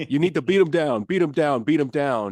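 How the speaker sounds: put-on slight New York accent. Quoting a man from a podcast, in a slight New York accent. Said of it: "that was a little New York".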